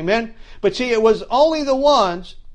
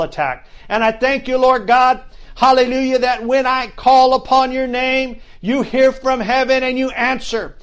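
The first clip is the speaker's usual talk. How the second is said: laying a curse; 2 semitones higher than usual. Real, not acted. Pastor prays, cursing coronavirus.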